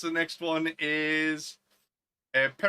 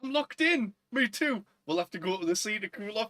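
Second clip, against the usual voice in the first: put-on awkward teen; 5 semitones higher than usual. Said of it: "And he's like".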